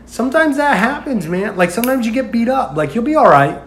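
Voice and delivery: big brother calmly reassuring his beaten sibling; imitating brother. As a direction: casually reassure him. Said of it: "It was just like".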